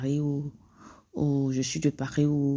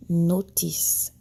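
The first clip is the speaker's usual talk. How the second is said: slow model word. Shown as a demonstration. Teacher models the better verb for students, slowly. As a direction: say "notice" slowly and clearly. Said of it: "il est mieux de dire".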